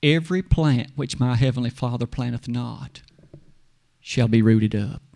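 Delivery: low, weighty scripture; Jesus tenderly answering the lady, low and grave. Acted. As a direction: intone the verse gently but firm. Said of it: "Jesus tenderly looks at her and says".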